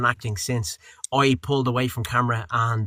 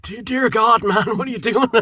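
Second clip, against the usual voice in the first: exasperated body voice; 10 semitones higher, 4 dB louder than usual. Retold or imitated. Body voicing its exhaustion.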